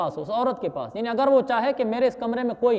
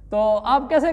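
laughing; 4 dB louder than usual. Real, not acted. Laughing at his own retort.

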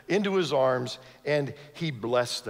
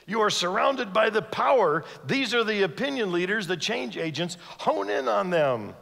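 irritated; 5 semitones higher than usual. Acted. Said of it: "the disciples get a little irritated".

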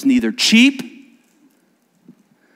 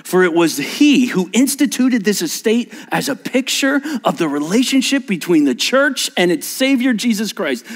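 formal wedding liturgy; 8 semitones higher than usual. Shown as a demonstration. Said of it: "This is literally what I say".

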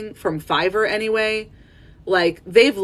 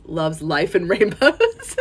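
customer service voice; slower than usual. Shown as a demonstration. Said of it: "my customer service voice".

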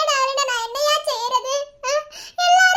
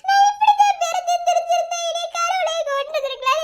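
tearful, rising despair; crying lament; 3 semitones higher than usual. Acted. Daughter alone, crying that God should have killed her. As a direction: wail it through tears. Daughter wishes she were dead.

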